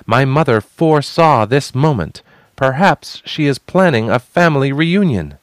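high, loud bluffing speech; bold proclamation. Acted. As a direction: bluff loudly to the crowd. Bluffing to crew.

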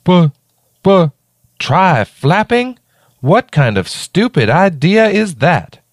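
high, slow, disbelieving little raccoon; exasperated raccoon. A narrator's reading. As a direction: squeak out the outrage like a small raccoon. Raccoon character voice.

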